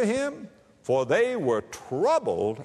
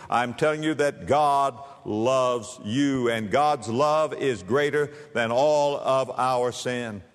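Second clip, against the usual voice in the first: earnest assurance; 3 semitones lower, slower than usual. Real, not acted. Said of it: "earnest assurance".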